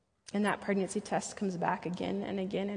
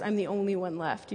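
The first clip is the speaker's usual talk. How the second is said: mock dramatics. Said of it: "mustering up the dramatics".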